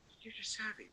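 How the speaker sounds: whisper-ish shop worker's question. Retold or imitated. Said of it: "are going".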